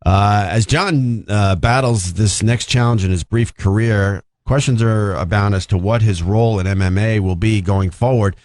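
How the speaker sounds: reading an article aloud; news read. Acted. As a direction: deliver it like a news report.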